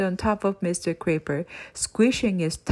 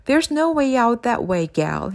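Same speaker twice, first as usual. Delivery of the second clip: shouted warning; 3 semitones higher, 3 dB louder than usual. Acted. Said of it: "shouted Mary to Amelia".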